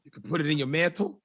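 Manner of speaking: lightly mocked infomercial preacher; a hint of televangelist salesman; Curtis Thomas. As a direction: rattle off the offers like a TV pitchman. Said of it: "That's the Curtis Thomas".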